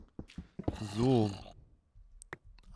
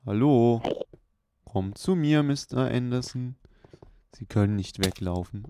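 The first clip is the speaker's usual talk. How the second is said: hammed-up villain stalking his target; loud mock Matrix agent taunting Mister Anderson; 7 dB louder than usual. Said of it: "Mister Anderson. Aus der Matrix".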